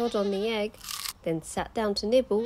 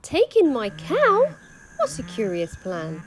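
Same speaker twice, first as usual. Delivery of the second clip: put-on astonished old lady; 3 semitones higher, 7 dB louder than usual. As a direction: gasp it out in disbelief.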